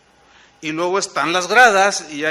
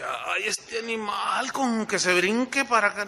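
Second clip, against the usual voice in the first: murmullo lento y receloso; temor infantil imitado; 6 dB quieter than usual. Retold or imitated. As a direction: recuerda quedito el miedo ante el toro. De niño, temeroso ante el toro. (inquietud de niño, a media voz)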